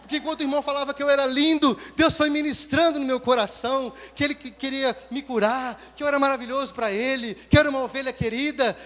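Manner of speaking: loud, high, fast ecstatic gushing; tearful joy. Retold or imitated. Blessed friend telling Jeremias about the service, ecstatic. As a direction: gush with overwhelmed joy. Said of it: "em lágrimas".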